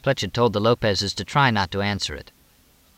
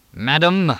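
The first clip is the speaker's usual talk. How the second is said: ringing, higher-pitched grand address; regal; 6 semitones higher, 4 dB louder than usual. A narrator's reading. Mooney addresses Edith from the living room, regal and ringing. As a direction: ring it out regally. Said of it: "Mooney's voice rang regally".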